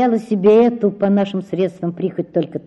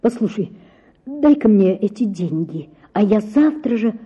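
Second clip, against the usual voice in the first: trembling voice. Acted. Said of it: "начал он дрожащим голосом".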